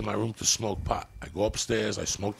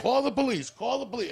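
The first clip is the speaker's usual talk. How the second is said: high mock panic; 13 semitones higher than usual. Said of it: "they're like".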